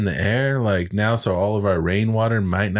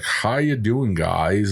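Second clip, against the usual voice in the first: put-on American accent, slow, every word overenunciated. Imitating a British or Australian guy doing an American accent, overenunciated mock American accent. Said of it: "they really like enunciate certain words".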